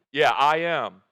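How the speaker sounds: a sudden loud "Yeah, I am."; loud declaration. Acted. Preacher voicing Jesus declaring himself to the mob, loud. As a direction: hit it hard, like a thunderclap.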